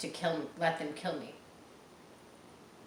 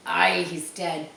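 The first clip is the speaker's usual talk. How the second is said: pirate voice; 6 dB louder, slower than usual. Acted. Pirate agrees Flint is dead.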